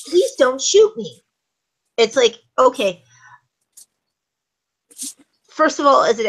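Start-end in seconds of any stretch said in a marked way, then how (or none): 0.0-1.2 slow, higher, pleading line; quivering plea. Shown as a demonstration. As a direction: beg slowly, a little shaky. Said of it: "yells in a quivering voice".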